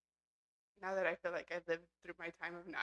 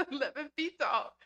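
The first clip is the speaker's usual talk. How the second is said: laughing repeat; 2 semitones higher, 5 dB louder than usual. Real, not acted. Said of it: "Can you do it a little bit more realistic".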